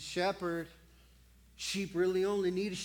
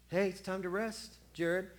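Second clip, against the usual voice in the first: soft little voice. Acted. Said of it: "Soft little voice in the back".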